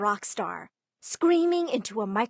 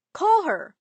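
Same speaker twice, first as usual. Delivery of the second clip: "Call her" pushed higher and louder, falling hard at the end; insistent; 8 semitones higher, 7 dB louder than usual. Acted. Friend insists dad call her.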